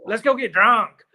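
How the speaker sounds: put-on Let's go get drunk, stretched slowly in a local accent; mocking how locals say drunk, slow; slow mock drawl. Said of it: "they do that crap".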